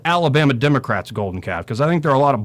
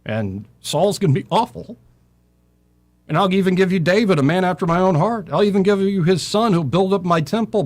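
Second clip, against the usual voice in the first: a lightly voiced God, pitched higher and proud; 7 semitones higher than usual. God promising Israel kings, a higher proud voice. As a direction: speak as a generous, grand God.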